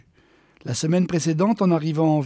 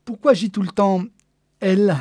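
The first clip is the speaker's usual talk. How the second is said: louder, a bit higher, amused; amused outburst; 4 semitones higher, 6 dB louder than usual. Acted. Man laughing at himself, amused outburst. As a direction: burst out at your own joke. Laughing at his own assumption.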